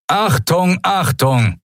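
high, booming call over a loudspeaker. Acted. Pirate alarm over hidden speakers, booming loudspeaker call. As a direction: thunder it through hidden speakers. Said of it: "donnerte plötzlich die Stimme ... über versteckte Lautsprecher".

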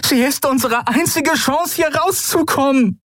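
high, urgent pleading; desperate plea. A narrator's reading. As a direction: beg him to stop. Pleading with Keru to stop. (verzweifeltes Flehen, hoch)

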